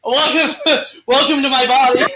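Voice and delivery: laughing mock welcome. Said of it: "I look at the demon and go".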